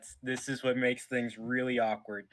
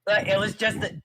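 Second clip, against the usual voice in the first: higher and louder, rushing to explain; pleading explanation; 6 semitones higher, 4 dB louder than usual. Acted. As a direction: plead your case, pitched up. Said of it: "I say".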